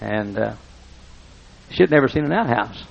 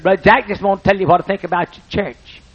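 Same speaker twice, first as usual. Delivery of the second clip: much higher, earnest country voice; lightly voiced earnest farmer; Wood's earnest opening; 8 semitones higher, 5 dB louder than usual. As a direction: build up to something important. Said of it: "he talked like this".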